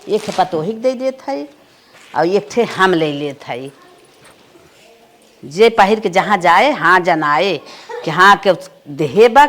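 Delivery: loud proud boast. Acted. Mother boasting about daughter's saris.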